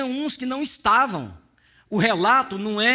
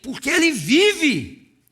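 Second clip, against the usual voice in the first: "Porque ele vive" said slow, louder and higher, leaning on "ele"; slow loud proclamation; 5 semitones higher, 5 dB louder, slower than usual. Shown as a demonstration. Preacher declares to the congregation, slow and loud. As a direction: proclaim it slowly, full voice. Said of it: "Porque Jesus vive".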